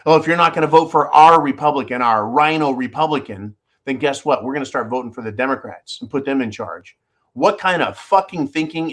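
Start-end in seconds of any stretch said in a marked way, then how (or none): 0.0-7.0 mock rhino Republican. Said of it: "some rhino Republicans have suggested just that".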